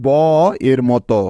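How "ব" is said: ব voiced alone as the sound of B; isolated ব, a phonics demonstration; letter sound of B. Shown as a demonstration. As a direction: sound out ব by itself. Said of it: "এর উচ্চারণ হয়".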